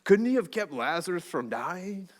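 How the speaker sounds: a touch of a surfer asking skeptically; surfer dude. Retold or imitated. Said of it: "I don't know if they're surfer dudes".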